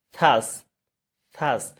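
short separate "থার্স", tongue tip between the teeth. Shown as a demonstration. Teacher isolates "থার্স" for learners, th on the teeth. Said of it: "দুই দাঁতের ফাঁকে জিহ্বাটা ঢুকাতে হবে".

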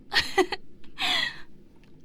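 whispered giggle. Acted. Giggle after proposal joke.

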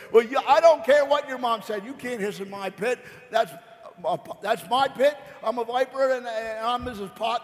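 put-on high, sharp neighbour scolding a kid. Missus Pot scolds again.

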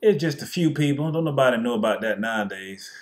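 lightly voiced smug denier brushing it off; mock denier. Mocking denier voice.

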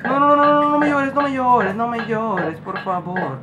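plead, trailing down to a murmur; whimpered plea. Real, not acted. Player begging the child not to cry, whimpered plea.

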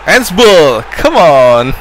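loud, high outburst at the foul; yelling at the screen over a handball; excited shout. Real, not acted. Gamer shouts at the screen over a handball, excited.

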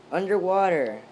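as if talking from under water; muffled underwater voice. Acted. Player voices a word as if underwater, muffled. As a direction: blur the word like it's underwater. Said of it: "it was underwater, so it's all muffled".

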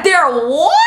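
loud, high, rising "what"; shocked disbelief. Retold or imitated. Cousin told of trouble at the airport, shocked disbelief. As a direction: blurt it out, stunned.

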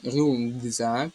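"рюкзак" slowly, with к voiced to a hard g; slow pronunciation demo. Shown as a demonstration. Teacher shows к becoming voiced, slow pronunciation demo. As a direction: sound out "рюкзак" as "рюґзак". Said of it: "«г»".

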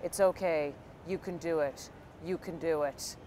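low-key, toneless encouragement; flat reply. Retold or imitated. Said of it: "And he's flatly replying".

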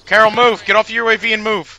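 shouting. Real, not acted. Yelling at teammate under fire.

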